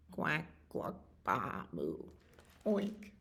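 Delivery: soft farmyard calls, one by one; subdued animal noises. Acted. Animals filing out one by one, subdued noises. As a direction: make each animal sound quietly. Other animals file slowly out.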